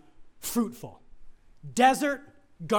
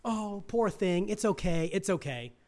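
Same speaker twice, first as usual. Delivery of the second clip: mock coddling parent; 3 dB quieter than usual. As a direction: lightly play the doting dad. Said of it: "not the little girls".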